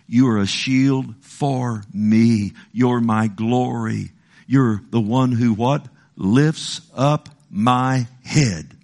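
slow, tender reading of the psalm; slow prayerful reading. Acted. Preacher praying David's psalm aloud, slow and tender. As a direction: savor each word slowly.

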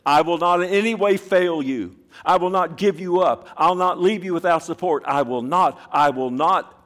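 high, loud declaration; proclaiming loudly. Real, not acted. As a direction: ring it out like a promise. Preacher proclaiming God's three promises.

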